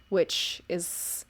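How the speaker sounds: normal talking voice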